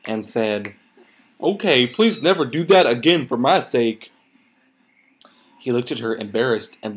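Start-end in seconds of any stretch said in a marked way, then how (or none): 1.4-4.1 lightly voiced character in lilting tones; louder, swooping story-character line; pony character voice. Reader as Applejack scolding her brother, lilting character voice.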